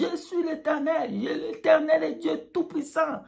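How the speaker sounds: high proclaiming voice of God. Pretend. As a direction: cry out the divine name. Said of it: "il criait son nom".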